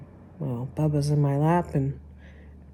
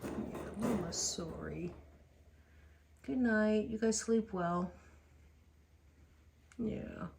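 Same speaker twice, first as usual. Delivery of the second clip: much softer, slow whispered apology; whispering to pets; 16 dB quieter, slower than usual. Real, not acted. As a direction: whisper goodnight to sleeping dogs. Whispering goodnight to dogs.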